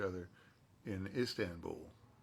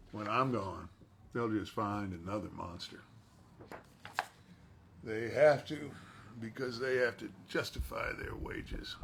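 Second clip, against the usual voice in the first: louder, firmer full take; character line; 3 dB louder than usual. Acted. Actor delivering a fan's quote for a signed print, firm and bitter.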